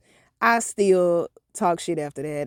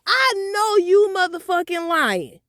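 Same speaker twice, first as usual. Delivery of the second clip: high, louder whiny protest; outraged teen; 10 semitones higher, 4 dB louder than usual. Retold or imitated. Daughter protesting to mom, high whiny outrage. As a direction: squeal it, indignant and tired. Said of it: "I was like".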